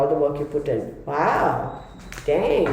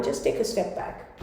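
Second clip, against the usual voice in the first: near whisper; 3 semitones higher, 11 dB quieter than usual. Real, not acted. Gentle advice to Leo.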